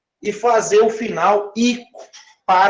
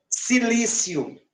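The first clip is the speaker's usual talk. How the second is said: slow demo; 3 semitones higher, 6 dB quieter, slower than usual. Shown as a demonstration. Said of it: "como que eu escrevo o nome para o silício?".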